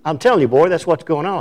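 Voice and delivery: imitating an Indian accent lightly. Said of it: "best he could in his Indian accent".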